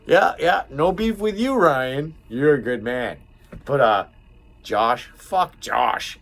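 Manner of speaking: high, loud venting; heated retold rant. Venting to Ryan about Josh, high and loud. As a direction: let it rip at the old boss and coworker.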